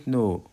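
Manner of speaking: "know" with the K left silent. Shown as a demonstration. Teacher showing pupils the silent letter in "know", K unpronounced. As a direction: say "know" as "no", no K sound. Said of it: "الكي سايلنت، لا تنطق".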